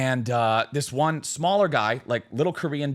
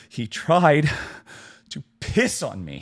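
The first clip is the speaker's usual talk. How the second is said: halting, horrified retelling; mock terror; 3 dB louder, slower than usual. Frightened smaller guy reporting on the drunk man, mock terror. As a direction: act out stunned horror with long pauses. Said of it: "fear and terror in his eyes".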